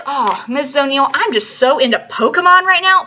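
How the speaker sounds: mock student gushing to the teacher; eager student. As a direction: gush like a student hooked on a craze. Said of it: "Maybe you're like".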